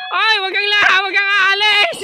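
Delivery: alarmed cry not to go; panicky plea. Real, not acted. Begging someone not to leave, then laughing.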